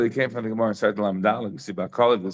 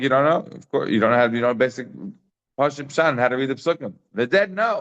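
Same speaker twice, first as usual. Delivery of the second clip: Rabbi Chia; 2 semitones higher than usual. Retold or imitated. Teacher voices one rabbi answering another, incredulous. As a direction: imitate a scholar mildly astonished at such ignorance. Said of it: "Rabbi Chia is like".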